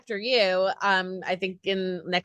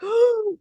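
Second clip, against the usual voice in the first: high, sudden intake of breath; imitated gasp; 12 semitones higher, 3 dB louder than usual. Imitating him hearing the pitch, big gasp. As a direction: gasp as if struck by an idea. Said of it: "like that".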